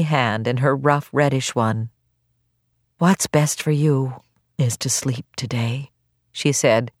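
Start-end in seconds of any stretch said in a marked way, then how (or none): 3.0-5.9 soothing doctor. Acted. Doctor soothing a sick patient.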